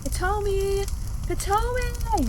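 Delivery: high desperate yells, the second one long and drawn out; screaming a name. Acted. Searching hero screams for lost Kotomi, desperate. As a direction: call her name through the fire, frantic. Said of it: "screaming relentlessly in hopes".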